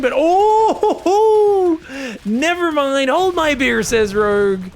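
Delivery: loud, high laughing burst. Real, not acted. Caster laughing to viewers as Rogue answers back. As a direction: break into laughter at the turnaround.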